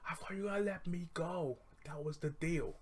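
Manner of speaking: high, breathy whispered plea; a girl whispers her plea to the leprechaun; pleading whisper. Retold or imitated.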